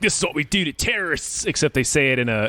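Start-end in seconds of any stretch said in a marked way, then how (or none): 0.0-1.4 a light attempt at an Irish accent; mock Irish accent. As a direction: say it like an Irish kidnapper, loosely. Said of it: "in an Irish voice".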